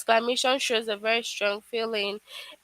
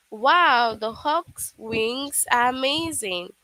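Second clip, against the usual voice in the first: amazed; slower than usual. Shown as a demonstration. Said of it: "it shows a surprise".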